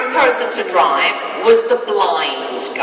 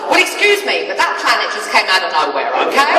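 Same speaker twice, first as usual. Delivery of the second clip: mock indignant; 4 dB louder than usual. Defends her crash, indignant.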